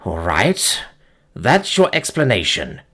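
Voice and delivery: shaken, subdued acknowledgement; shaky voice. Acted. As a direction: voice trembling slightly. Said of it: "acknowledged in a shaky voice".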